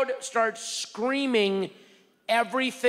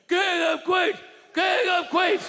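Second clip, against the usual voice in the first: fan screaming; 11 semitones higher than usual. Retold or imitated. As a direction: yell the show title at the stage like a rowdy fan. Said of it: "one guy in the front is just going".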